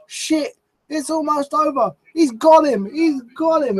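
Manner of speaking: high, frantic fake panic as if all is lost; mock panic. Mocking wrestlers selling a false finish, panicked and high. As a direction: ham up the near-loss panic. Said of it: "like their life depends on it".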